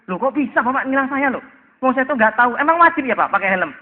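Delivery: tiruan pelanggar ngeyel bernada tinggi; pelanggar membantah. Acted. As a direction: protes ke polisi dengan suara naik.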